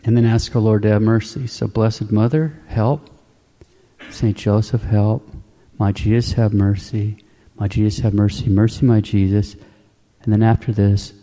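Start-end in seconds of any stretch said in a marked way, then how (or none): 1.7-9.6 slow, distinct prayer. Shown as a demonstration. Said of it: "you slowly and distinctly ask".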